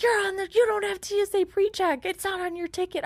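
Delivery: high-pitched imitated scolding; retold quarrel. Traveler imitating the lady disputing her ticket, heated. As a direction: argue back way up high. Acting out screaming match.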